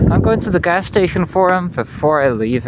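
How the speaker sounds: talking around a cigarette in mouth. Real, not acted. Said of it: "If I sound weird, it's because I got a cigarette in my mouth".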